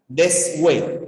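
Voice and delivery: "Deshue" said as des-we, with a w glide; hue como W. Shown as a demonstration. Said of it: "Es como si fuera una B doble". ("Deshue" con hue como doble u: des-we)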